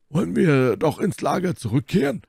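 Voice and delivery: high-pitched calling out; Porthos. A narrator's reading. Porthos proposes retreat to the camp, calling out. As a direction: call the question out, pitched well up. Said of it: "rief Porthos".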